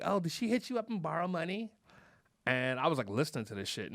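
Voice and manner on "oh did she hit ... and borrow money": mildly mocking imitation of gossiping women; teasing. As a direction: tease lightly, lifting into the question. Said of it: "teasing. They were like".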